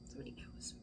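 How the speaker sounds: a hushed echo of the secret; faint whisper. Acted. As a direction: barely breathe it, almost to yourself. Repeated secret aside.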